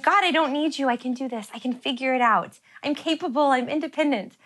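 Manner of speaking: mock toddler pride toward God; stubborn self-reliance. Pastor voicing her stubborn self speaking to God, defiant. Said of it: "exactly how I am with God".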